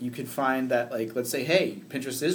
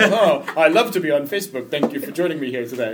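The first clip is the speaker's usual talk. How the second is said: professor voice; 2 semitones higher, 7 dB louder than usual. Pretend. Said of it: "be like a, a professor".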